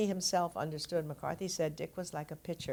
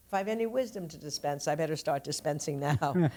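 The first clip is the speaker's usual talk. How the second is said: lightly voiced quote of his speech, pitched up at first; imitating his talk. Quoting him deciding at eighty to share his wisdom, light imitation. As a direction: lightly mimic his turn of phrase. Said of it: "this is how he talked".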